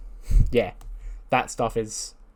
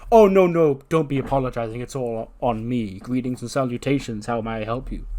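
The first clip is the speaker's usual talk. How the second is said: lightly voiced, over-courteous janitor; a hint of grandly formal servant; polite janitor; 4 dB louder than usual. Voices the polite janitor Keith Lee.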